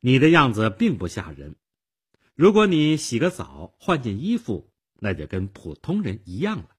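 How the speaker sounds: put-on mildly stern young girl; serious girl. A narrator's reading. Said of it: "少女严肃地说".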